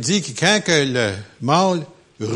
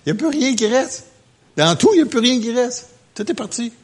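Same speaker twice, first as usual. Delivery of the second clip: emphatic preaching; 8 semitones higher, 4 dB louder, faster than usual. Real, not acted.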